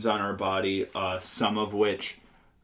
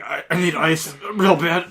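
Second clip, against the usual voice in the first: mock nosebleed voice; 7 semitones higher, 6 dB louder than usual. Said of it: "like, you have a nosebleed".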